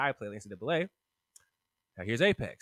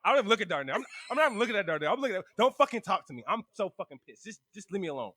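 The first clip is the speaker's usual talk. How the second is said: fast, raised angry ranting; dramatic retold tantrum; 4 semitones higher, 4 dB louder, faster than usual. He storms off from Whitley, dramatic retold tantrum. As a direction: play up being too mad to look at anyone. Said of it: "This so dramatic".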